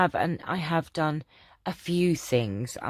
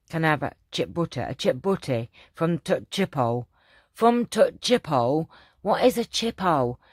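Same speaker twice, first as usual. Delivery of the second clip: put-on Yorkshire accent; 2 semitones higher, 4 dB louder than usual. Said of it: "that isn't very good accent".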